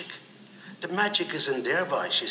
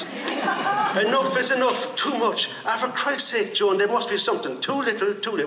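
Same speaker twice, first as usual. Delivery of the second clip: slow, much higher pleading cries; heated quarrel; 7 semitones higher than usual. Retold or imitated. Man pleading with Joan in slow, high-pitched exasperation. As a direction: stretch each word out high, at the end of the rope.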